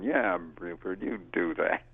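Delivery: slow, dry sarcasm; deadpan slow mock agreement; sarcastic reply. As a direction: pretend to believe him, slowly. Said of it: "And I'm going".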